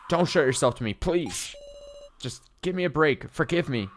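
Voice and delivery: acted anguished plea; desperate pleading. Sarah pleads with hallucination.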